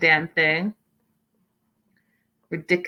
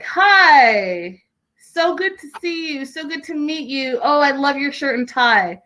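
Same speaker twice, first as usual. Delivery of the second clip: imitating an overeager suck-up, pitched higher; mock fawning greeting; 6 semitones higher than usual. Imitating Andrew greeting the unimpressed dad, mock gushing. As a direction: gush lightly at the dad like a nervous flatterer. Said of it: "that was awkward and unnecessary".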